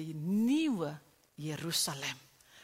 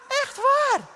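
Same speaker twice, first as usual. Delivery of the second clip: high, loud emphatic cry; high exclamation; 14 dB louder than usual. Real, not acted. Preacher to congregation, a high loud emphatic cry. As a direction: insist it, voice leaping up.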